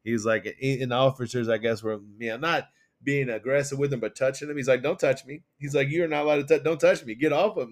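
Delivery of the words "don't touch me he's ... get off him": mock protest. Retold protest at officers.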